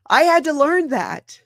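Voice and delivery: fighting real tears; holding back tears. Real, not acted. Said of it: "I'm trying not to cry".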